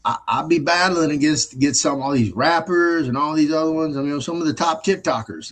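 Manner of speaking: boasting to his buddy, high and eager; excited friend. Retold or imitated. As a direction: hype up the rap battles like a proud kid. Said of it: "He goes".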